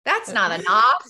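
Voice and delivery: "knife" pronounced like the end of "enough", loud and slow; KNIFE said like "nuff". Shown as a demonstration. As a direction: make "knife" sound like "nuff" in an Australian accent. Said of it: "Sounds like you're saying enough".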